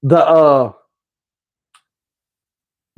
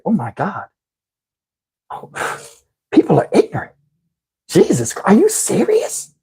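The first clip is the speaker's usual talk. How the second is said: complaining woman; 4 dB quieter than usual. Retold or imitated. Woman at buffet complaining, indignant mock voice. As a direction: play the outraged woman huffing.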